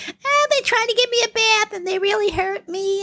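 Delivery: put-on high, wailing little boy complaining; whiny crying kid. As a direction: whine it like a hurt, soaked kid. Kid whining after bath prank.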